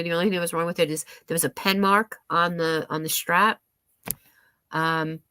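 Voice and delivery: stuffy nose, congested voice; blocked nose. Real, not acted. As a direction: talk through a blocked nose. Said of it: "I don't know why I'm getting stuffy".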